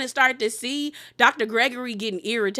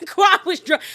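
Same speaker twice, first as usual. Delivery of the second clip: laughing; 7 semitones higher, 7 dB louder than usual. Real, not acted. Laughing retelling the drunk scene.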